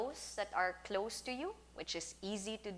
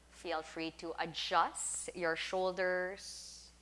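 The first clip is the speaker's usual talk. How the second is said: guided meditation; 4 dB quieter than usual. Acted. Teacher settles class lying down for a sound bath, guided meditation. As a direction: talk them gently into settling down, leaving space between phrases.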